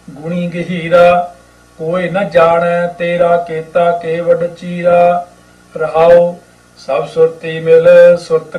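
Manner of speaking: slow, measured chanting read of the hymn; unhurried gurbani recitation; scripture recitation. Acted. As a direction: recite each word slowly and devoutly.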